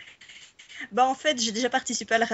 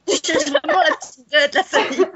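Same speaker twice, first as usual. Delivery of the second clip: talking through laughter, louder; giggling tease, louder than usual; laughing; 5 semitones higher, 6 dB louder than usual. Real, not acted. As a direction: laugh the words out. Teasing back while laughing.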